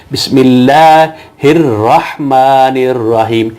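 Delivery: slow بسم اللہ الرحمن الرحیم with doubled لام and را; shadda recitation. Shown as a demonstration. Teacher modelling the doubled letters in the verse, slowly. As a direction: press every doubled letter clearly. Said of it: "اس کو کہنا ہے".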